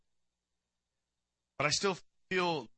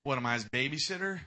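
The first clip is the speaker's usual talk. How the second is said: lightly voiced sarcastic retort; mock smart-aleck Cain. Cain mouthing off to God, mild sarcasm. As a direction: toss it off like a sulky smart aleck. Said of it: "You talking smack to God?".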